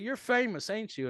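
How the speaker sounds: very high-pitched imitation of a starstruck stranger; excited fan. Fan recognizes the comedian, high excited imitation. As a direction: act out a thrilled fan recognizing someone.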